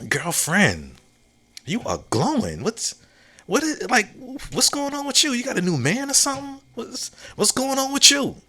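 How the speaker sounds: put-on high, excited girl-talk to a friend who's glowing; gushing girlfriend.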